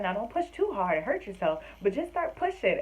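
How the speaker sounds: imitating mom hedging her advice; fussy mom. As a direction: caution first, then urge. Mom giving contradictory advice.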